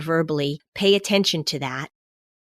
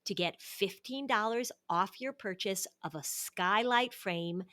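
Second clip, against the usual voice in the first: sponsor ad read; 13 dB quieter than usual. Real, not acted.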